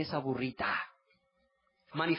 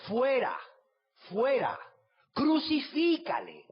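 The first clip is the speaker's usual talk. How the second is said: mob shouting; 9 semitones higher, 3 dB louder, slower than usual. Acted. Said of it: "Pero ellos gritaron".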